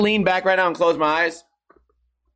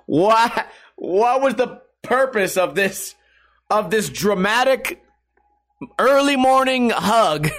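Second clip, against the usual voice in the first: exasperated disbelief; 5 semitones higher, slower than usual. Real, not acted. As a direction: stretch every word like you can't believe it. Ranting about Tex's pointless hug.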